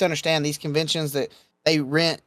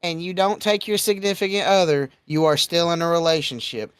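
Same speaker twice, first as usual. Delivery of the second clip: slow, raised-pitch warning; firm, deliberate admonishment; emphatic lecturing; 6 semitones higher than usual. Real, not acted. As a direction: lay down the rules, stretching the key words. Laying down rules for convention goers.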